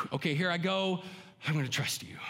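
high, searching plea to God with a sigh; a lightly voiced faltering prayer; hesitant prayer. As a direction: let the doubt show, then give in. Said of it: "He wants us to look to him to say".

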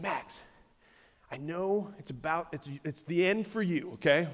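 soft, hushed words in a dying dog's ear; gentle whisper to dog. Retold or imitated. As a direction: lean close and speak very softly. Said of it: "I just whispered in his ear".

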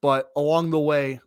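muffled through a face scarf. Real, not acted. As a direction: talk with a scarf over the mouth. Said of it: "I'm just gonna put the scarf back on".

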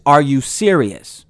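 slow, mildly incredulous question; disapproving rebuttal. Acted. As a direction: ask it slowly, in understated disbelief. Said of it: "asking a question like this".

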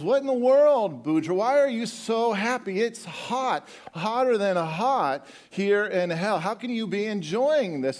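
high-pitched, incredulous questioning; exasperated Satan. Acted. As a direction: demand an explanation in disbelief. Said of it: "Satan goes".

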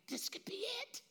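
hushed, breathy whisper of a tempting secret; whispered teaser to a friend. Acted. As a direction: lean in and whisper it like a conspiracy. Friend urging Nathanael, secretive.

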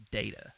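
"data" said as DAY-tuh; long-A data. Shown as a demonstration. Co-host picking the sophisticated pronunciation, long-A data. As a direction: say "data" with the first vowel of day. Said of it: "more sophisticated when I s".

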